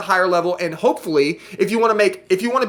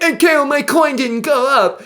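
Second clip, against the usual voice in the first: higher, louder mock whine; whiny viewer imitation; 6 semitones higher, 3 dB louder than usual. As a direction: parody a sulking investor. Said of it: "And you're like".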